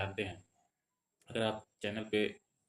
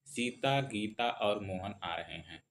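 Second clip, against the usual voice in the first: brief rest after "Sita,"; comma pauses; 4 dB louder, slower than usual. Shown as a demonstration. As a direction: read slowly, setting "Sita," apart from "Gita". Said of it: "थोड़ी देर के लिए विश्राम करना हो". ("सीता," के बाद हल्का विराम, धीरे-धीरे)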